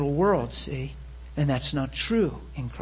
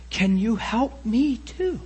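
retold timid plea; 5 semitones higher, slower than usual. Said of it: "She said to me".

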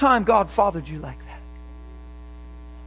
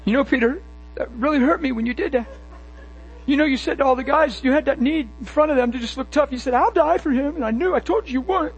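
hurt Jesus; 4 semitones higher than usual. Acted. Jesus speaks hurt to Peter.

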